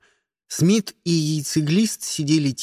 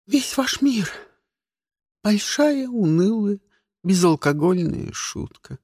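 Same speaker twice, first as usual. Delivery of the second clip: gloomy; 6 semitones higher than usual. Acted. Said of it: "мрачно заявила Фиона".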